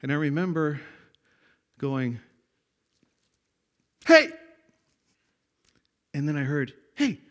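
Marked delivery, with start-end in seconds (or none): 4.0-4.3 loud, sudden shout of hey; hollered call. Retold or imitated. Boy hollering from the mountaintop, hollered call. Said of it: "I hollered out again". 6.9-7.2 echoed call. Retold or imitated. Echo answering the boy's shout.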